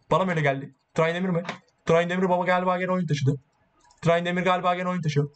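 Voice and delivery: mock-impressed teasing of a teammate; sarcastic mockery. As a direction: needle him with fake praise. Mocking teammate who thinks he carried.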